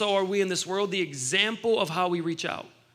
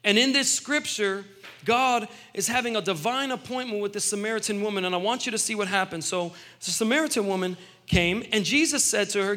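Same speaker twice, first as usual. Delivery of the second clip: usual speaking voice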